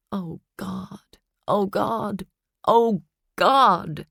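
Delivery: rising panic from breath to voice; gasping terror building; panicked. A narrator's reading. Panicking inner voice.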